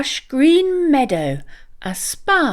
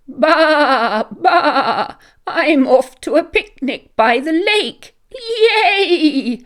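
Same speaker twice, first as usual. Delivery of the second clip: high, bleating sheep voice, excited; 6 semitones higher, 4 dB louder, slower than usual. Acted. Ram bleating excitedly about the picnic, high sheep voice. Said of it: "bleated Ram".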